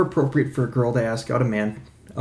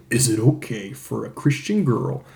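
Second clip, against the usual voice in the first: lady killer voice; 3 semitones lower, 5 dB quieter than usual. Pretend. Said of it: "like, a lady killer, deep macho voice".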